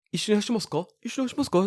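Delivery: high mock old man asking in Japanese; imitating the old man. Runner retells old man inviting him, high mock voice. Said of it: "he'll be like".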